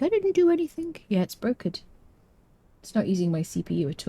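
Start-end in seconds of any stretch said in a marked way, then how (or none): 0.0-1.0 much higher pitched voice for the cat; cat's protest. Pretend. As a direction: speak for the cat, high-pitched, pleading innocence. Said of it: "She's like".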